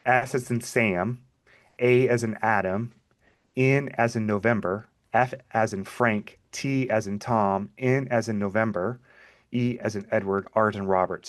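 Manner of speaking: measured spelling with pauses between letters; slow spelling. Real, not acted. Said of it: "spell my email address slowly".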